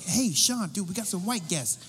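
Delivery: calling to the guitarist. Retold or imitated. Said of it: "I was like".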